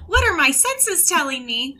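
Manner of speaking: lightly voiced cheerful character; a touch of sing-song character voice; bright squeaky sing-song welcome. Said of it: "Oh wait, my character voice".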